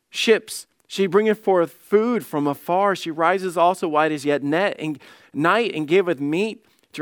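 measured scripture reading voice. Acted. Preacher reading Proverbs to moms, measured reading. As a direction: read the verse out to the congregation. Reads Proverbs verse aloud.

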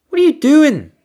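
high, loud, disbelieving cry; shocked yelp at the excess; incredulous outburst. Real, not acted. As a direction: squeal it in disbelief.

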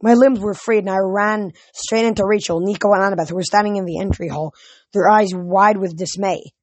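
animated audiobook reading; story narration. A narrator's reading. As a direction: tell the adventure with steady energy.

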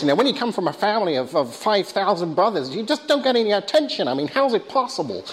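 put-on hurried neurotic ant in a rough American accent; Woody Allen accent. Speaker quotes neurotic ant from Ants, mock American accent. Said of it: "sorry about my terrible, uh, accent there".

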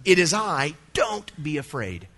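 a firm, strong command from Jesus. Retold or imitated. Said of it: "Jesus commands in the strongest language".

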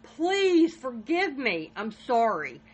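mock-shout the plea, then let it sink; retold pleading shout. Husband begging his wife on the 911 call, mild mock shout. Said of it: "you hear Jason shouting".

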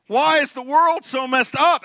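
lightly hammed-up groan at the news; a hint of the weary phone scroller; exasperated scroller. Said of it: "you're like".

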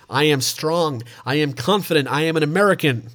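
a steady, deliberate American accent on "I am strong"; American accent warm-up. Shown as a demonstration. Host warms up his American accent with a lock-in sentence. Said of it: "That's my lock-in sentence for an American".

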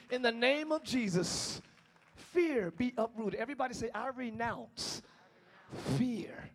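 slow renouncing prayer. Real, not acted. Preacher leading the church to renounce fear. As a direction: lead them phrase by phrase.

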